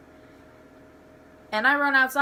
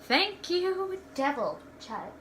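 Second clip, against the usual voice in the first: sarcastic thanks; 6 semitones higher, 4 dB quieter, slower than usual. Real, not acted. Sarcastic thanks to chewing dog.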